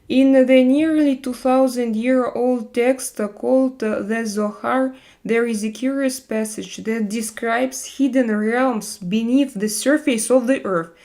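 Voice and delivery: put-on reads an old text aloud in a storytelling voice; a touch of mystery-narrator reading. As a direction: present the passage like the opening of a documentary.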